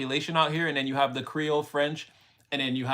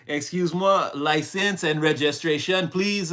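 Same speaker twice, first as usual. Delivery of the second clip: louder, higher, stern traffic-stop command; forceful Quebec cop; 3 semitones higher, 5 dB louder than usual. Retold or imitated. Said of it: "it's very forceful".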